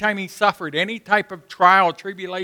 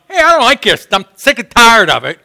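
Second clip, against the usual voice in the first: complaining to God; 3 semitones higher, 5 dB louder than usual. Retold or imitated. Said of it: "if I go to God and I tell him".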